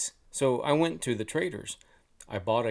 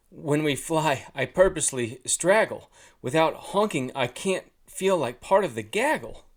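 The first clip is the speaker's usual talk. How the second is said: lightly voiced goose, a bit louder and higher; talking goose; 4 semitones higher, 5 dB louder than usual. A narrator's reading. Broken-honker goose confiding in the hunter, raised character voice. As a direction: voice the goose's complaint, raised a little.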